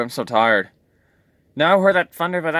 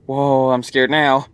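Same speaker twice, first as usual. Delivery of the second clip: scared; 4 dB louder, slower than usual. Acted. Toy frightened by thunder.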